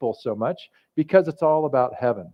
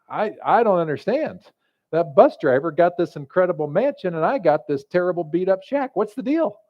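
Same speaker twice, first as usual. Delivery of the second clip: a touch of hurt indignation, rising at the end; mildly indignant pastor; 4 semitones higher than usual. Acted. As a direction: complain like a slighted pastor, but keep it light. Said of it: "the pastor gets a little bit indignant".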